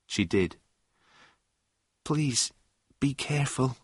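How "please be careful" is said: soft, higher-pitched hushed plea; lightly whispered warning, voice kept down; urgent whisper. A narrator's reading. Susan warns John in the cinema, whispered. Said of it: "she whispered suddenly".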